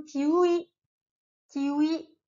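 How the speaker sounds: kiwi, careful middle sound; Japanese kiwi. Shown as a demonstration. Teacher stressing the middle character for learners. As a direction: model kiwi slowly. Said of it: "fais attention à la prononciation".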